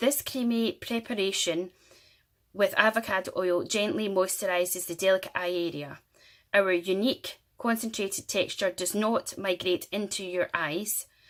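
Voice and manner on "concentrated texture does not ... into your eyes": ordinary talk, nothing marked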